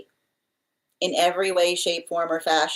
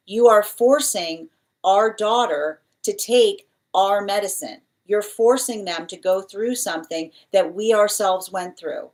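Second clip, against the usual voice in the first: accusing; slower than usual. Retold or imitated. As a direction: press the blame, then let it sink. Spirit accuses via medicine message.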